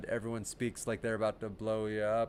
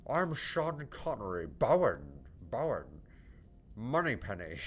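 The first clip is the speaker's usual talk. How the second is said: Sean Connery; 4 dB quieter than usual. Pretend. Gamer who can't do accents tries the actor, clumsy impression. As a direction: ham up a poor Scottish star impression. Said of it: "I can't do accents".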